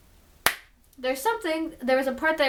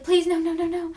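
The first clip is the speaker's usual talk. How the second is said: higher pleading no no, lightly acted; mock pleading; 5 semitones higher than usual. Zoe begging at the hospital room door, mildly pleading. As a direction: beg a little, half-hearted. And she's like.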